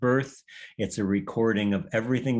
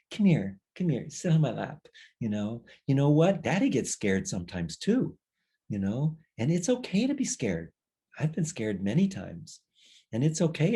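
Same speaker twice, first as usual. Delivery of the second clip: tender daddy; 3 semitones higher than usual. Acted. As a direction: soothe the scared child on his lap. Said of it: "he says".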